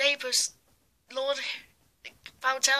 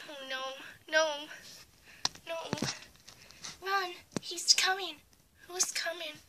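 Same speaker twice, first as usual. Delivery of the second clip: panicked warning; 4 semitones higher than usual. Acted. Child warning to flee.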